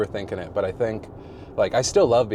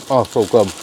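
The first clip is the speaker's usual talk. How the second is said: savoring moan over junk food; mm-so-good moan; 10 dB louder than usual. Real, not acted. Mouth full, moaning at the snack in his car. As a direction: relish the bite out loud. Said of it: "I'm just moaning in my car".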